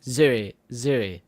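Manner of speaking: posh British impression. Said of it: "his is more like".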